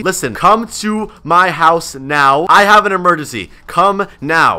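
slow, emphatic emergency call; urgent demand. Pretend. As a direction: spell out the urgency, word by word. Phones police about an emergency.

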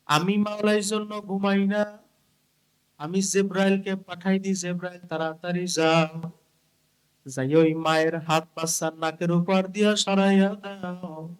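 chanted storytelling with held line endings; sing-song preaching. Acted. Preacher telling of mother and baby, sing-song chant. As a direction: intone each phrase and stretch its last word. Chants God's words to Jibrail.

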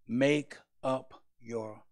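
slow, solemn voice from behind; slow commanding "make up your mind"; voice of God. Acted. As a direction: speak as the divine voice, deliberate. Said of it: "a verbal voice behind me say".

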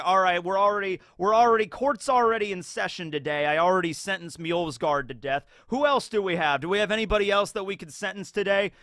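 loud, high eager judge; lightly voiced eager judge; brisk judge. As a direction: rush the docket like a bored judge. The speaker as judge in court.

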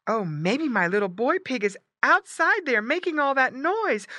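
high worried mother pig; crying out. A narrator's reading. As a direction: cry it to your husband as mama pig. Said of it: "cried Missus Pig".

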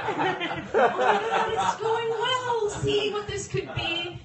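high, slow, airy musing; captain dismissive. Retold or imitated. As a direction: drift off dreamily. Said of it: "He's like".

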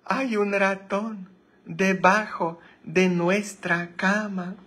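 high hammed-up maid voice; mock maid's squeaky panic. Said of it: "repeats the punchline".

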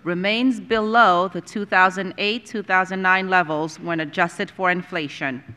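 formal read-out with pauses between clauses; formal resolution reading. Acted. Board member moving a resolution on teacher pay, formal read-out. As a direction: read a proclamation aloud, measured and deliberate.

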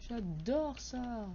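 slow sarcastic drawl. Real, not acted. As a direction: drag it out with mock delight. Mocking the broken horror game.

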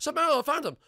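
loud, very high cry of discovery; high-pitched gleeful holler; excited yell. Acted. Finds a hider in game.

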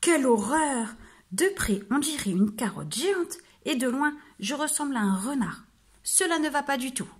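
the wolf groans at looking like a fox; wolf's dismayed cry. Acted. Wolf complaining to the mirror, a touch dismayed.

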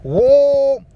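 high loud whoa yell. Shown as a demonstration. Showing the French oh put onto a yell, high loud whoa. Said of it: "You put it onto a yell".

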